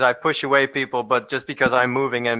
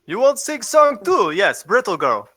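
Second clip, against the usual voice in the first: character voice; 7 semitones higher than usual. Acted. Broken-English character voice.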